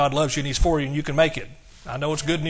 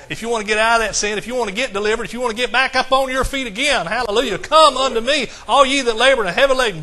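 high, loud, fast revival preaching; rising call to come to Jesus; full-force preaching; 6 semitones higher, 6 dB louder than usual. Acted. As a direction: drive it home to the congregation.

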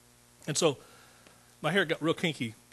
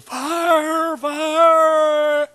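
high, very loud otherworldly cry of fire; demonic shriek; 13 semitones higher, 14 dB louder than usual. Retold or imitated. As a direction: scream it like a demon in torment. Demon-possessed man cries out.

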